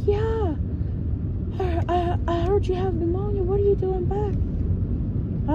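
high voice, stretching the final question; concerned coworker. Retold or imitated. Coworker questioning her return with pneumonia, fussing.

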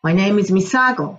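"My name is 美佐子" like a native speaker, stress on "佐"; fluent American-sounding "My name is 美佐子"; imitating the boy's English-style "My name is 美佐子", leaning on "佐"; English-like delivery. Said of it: "彼のように言うと".

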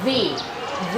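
V buzzed between lip and teeth; voiced V demo. Shown as a demonstration. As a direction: voice the V through a narrow gap. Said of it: "ครูจะออกเสียงตัว ตัวแรกนะคะ ตัว V". (สาธิตเสียง V แบบเสียงก้อง)

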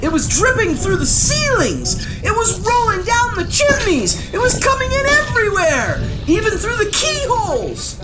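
high, urgent storytelling; alarmed narration. A narrator's reading. Narrator tells children of goo flooding the palace, alarmed. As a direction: build the panic in a high voice.

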